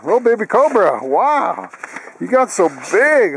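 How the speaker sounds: high cooing voice for the dog. Real, not acted. Cooing at the puppy.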